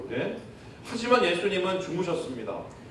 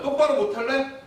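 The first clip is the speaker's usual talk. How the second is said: mock scolding; 4 semitones higher than usual. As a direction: scold like a strict coach. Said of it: "이러면서 오히려 다구치세요".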